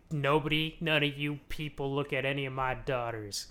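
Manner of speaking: put-on light southern accent on an old patriarch. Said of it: "He doesn't have a southern accent".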